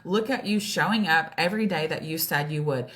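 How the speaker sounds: building pep talk to oneself; encouraging self-talk. Retold or imitated. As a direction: cheer yourself on, emphatically. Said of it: "I just had to flip my mind".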